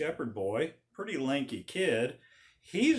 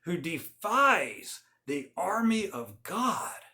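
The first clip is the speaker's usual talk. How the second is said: righteous indignation; 3 semitones higher than usual. Retold or imitated. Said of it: "he says".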